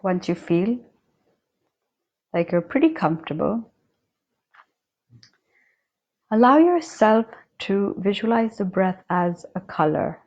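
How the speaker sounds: unhurried meditation guide with long silent pauses; guided meditation. Acted. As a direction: guide them calmly, leaving long spaces between phrases. Leads a breathing meditation.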